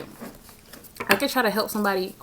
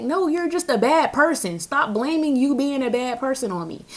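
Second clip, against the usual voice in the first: exasperated retort; 5 semitones higher than usual. Retold or imitated. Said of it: "And it's just like".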